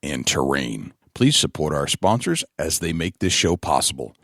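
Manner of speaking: announcer read of title and sponsors; measured, emphatic sponsor billboard; podcast announcer. Acted. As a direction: punch out each billing like a show intro. Reads show title and sponsors.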